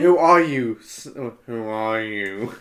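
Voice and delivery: hammed-up Snape demanding; mock Snape. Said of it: "Snape asked".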